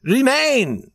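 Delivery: high, loud princely order; powerful command. A narrator's reading. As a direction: order him to stay, with full authority. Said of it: "commanded Prince Michael".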